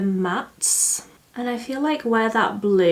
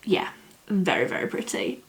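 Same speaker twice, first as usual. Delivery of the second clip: whispering; 6 dB quieter than usual. Real, not acted. Quietly admiring the colours.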